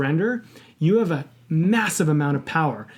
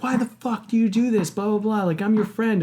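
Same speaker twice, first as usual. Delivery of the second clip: higher-pitched mock angry friend; retold anger; 6 semitones higher than usual. Friend confronts him for dating the girl, retold mild anger. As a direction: imitate an aggrieved buddy without raising the volume. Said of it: "he was super angry at me".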